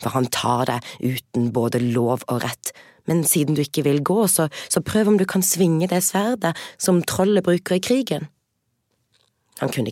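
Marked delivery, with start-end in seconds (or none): 0.0-8.3 urgent princess. Acted. Princess voiced in tale.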